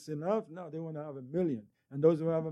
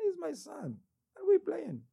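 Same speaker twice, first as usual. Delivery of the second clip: high mock tenderness; 13 semitones higher than usual. Mock-tender aside about son.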